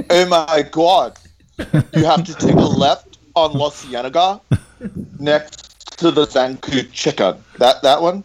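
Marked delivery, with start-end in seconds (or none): 1.9-7.4 lazy Southern California directions, slowed down; Californians sketch. Retold or imitated. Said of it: "his accent was like the Californians, that sketch".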